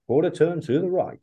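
high, ringing stage announcer call. Retold or imitated. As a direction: call it out like a show MC. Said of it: "P C A will be like".

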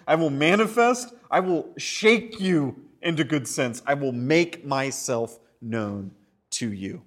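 emphatic paraphrase. Acted. Preacher driving home the meaning of manifest. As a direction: punch manifest, then ease off. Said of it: "Manny, hands, okay".

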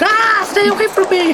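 very high imitated shriek; mock terrified scream. Secretary being chased by her boss, mock scream. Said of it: "So she's like".

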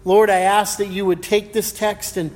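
hushed, earnest pulpit prayer; opening prayer before the sermon, reverent. Acted.

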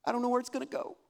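a light mock of a flustered wife, voice lifted a little; imitating wife. Pastor imitating his wife fumbling with the website, mild fluster. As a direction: lightly play the unsure wife lost at the computer. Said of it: "my wife is this way. She's like".

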